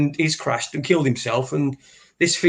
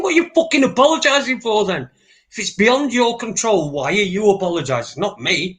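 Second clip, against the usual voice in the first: higher, faster, exasperated rant at the commentator; mock indignant rant; 5 semitones higher than usual. Man ranting at a TV commentator, mock indignant. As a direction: throw the question back at him, fed up. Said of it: "I'm thinking".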